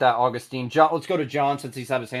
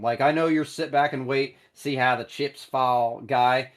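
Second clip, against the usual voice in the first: a slowed, lightly put-on GM voice with an odd accent; terrible Ballard voice. Host mocking Ballard's wait-and-see style, a slowed, lightly put-on voice. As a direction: do a bad, barely shifted take on the general manager. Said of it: "That was a terrible Ballard".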